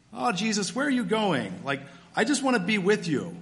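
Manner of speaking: high, pleading complaint to Jesus; a touch of mock whining; complaining plea. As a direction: whine it like a disappointed friend. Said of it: "the question is more of a complaint".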